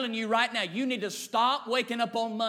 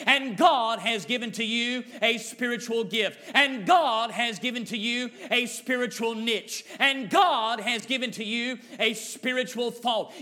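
preaching. Acted. Preaching repetition.

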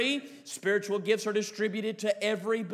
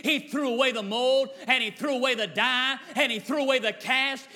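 building preaching. Acted.

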